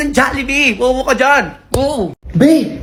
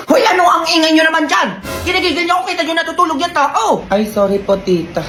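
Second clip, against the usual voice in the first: scolding aunt; 3 semitones higher than usual. Acted. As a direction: nag the kids like an irritated tita. Annoyed aunt scolding noisy kids.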